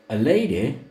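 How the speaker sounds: slow, high, languid Southern lady; languid drawl. A narrator's reading. Narrator voicing Serena to Luther, languid drawl. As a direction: drawl it out like a reclining grande dame. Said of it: "she would say in her most languid, multisyllabic drawl".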